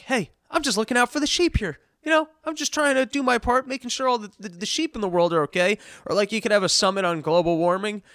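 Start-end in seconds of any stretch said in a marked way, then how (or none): 0.0-5.8 mock Trump. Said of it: "And Trump's just like".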